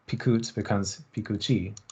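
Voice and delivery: "pikut" then "pikuchi" said softly with the stress moving; stress shift demo. Shown as a demonstration. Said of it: "the stress shifts".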